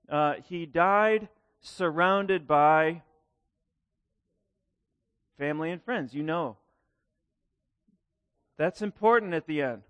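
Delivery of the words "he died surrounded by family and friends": very slow, each word laid down gravely; slow solemn obituary line. Shown as a demonstration. Preacher quoting an obituary, said very slowly. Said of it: "a statement that says something like".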